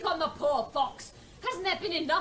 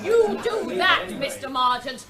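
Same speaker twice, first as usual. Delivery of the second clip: angry threat; 4 dB louder than usual. Acted. Chairwoman threatens official.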